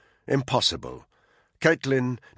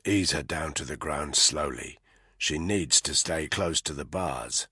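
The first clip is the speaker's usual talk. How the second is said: hushed order; 7 semitones lower, 6 dB quieter than usual. A narrator's reading. Quiet order to Caitlin.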